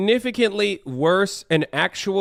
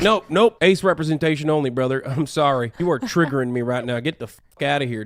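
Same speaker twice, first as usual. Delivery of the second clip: lightly put-on Southern accent, dropping lower; mock Southern accent; 5 semitones lower than usual. Mimicking an indignant conservative refusing others, mock Southern accent. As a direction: imitate a conservative with a Southern twang. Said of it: "a Southern accent because that's all they know".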